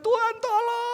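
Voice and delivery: high, long-held acted plea; teriakan minta tolong. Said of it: "teriak. Jadi mama". (seruan ibu bernada tinggi memanjang)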